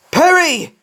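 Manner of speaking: loud, high-pitched holler; insistent yell; shouted name. A narrator's reading. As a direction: call out to break through. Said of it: "Plucky shouted".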